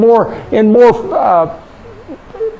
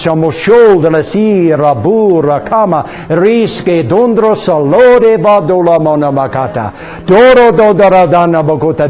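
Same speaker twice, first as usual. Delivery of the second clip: speaking in tongues. Real, not acted. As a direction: let the tongue run freely. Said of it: "speak with other tongues".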